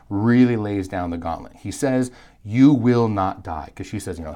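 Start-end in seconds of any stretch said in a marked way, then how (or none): 2.4-3.7 slow, deliberate and a bit louder; understated serpent's bold claim; bold statement. Retold or imitated. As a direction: lay down the gauntlet calmly. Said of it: "That's a pretty bold statement".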